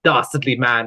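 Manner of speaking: lightly voiced posh English villain. Mocking film Brits, a light posh villain voice. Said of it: "super posh and villainous".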